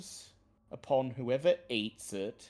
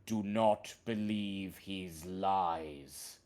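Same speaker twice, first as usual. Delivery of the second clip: talking tree. Acted. Treant warns of corrupt druid.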